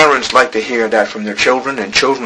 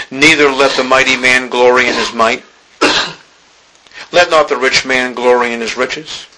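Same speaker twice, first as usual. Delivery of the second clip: measured, weighty reading of holy text; solemn scripture reading. Acted. Reads scripture aloud.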